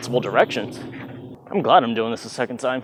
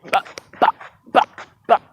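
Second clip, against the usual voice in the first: beatboxed bah rhythm; faster than usual. Shown as a demonstration. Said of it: "if I can do it".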